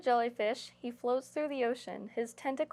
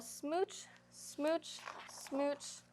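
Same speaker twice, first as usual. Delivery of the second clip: each smooch softer, slowing, down to a whisper; fading smooches; 2 semitones higher, 8 dB quieter, much slower than usual. Acted. Storyteller ends the book with kisses fading to a whisper. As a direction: let the kisses fade away to a whisper. Kiss fish blowing kisses, ending.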